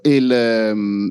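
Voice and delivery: slow yawning words. Real, not acted. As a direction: talk through a yawn. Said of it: "scusate lo sbadiglio".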